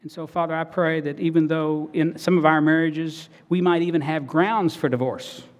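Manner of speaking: earnest pastoral prayer voice; closing prayer. Real, not acted. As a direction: pray it sincerely to the Father.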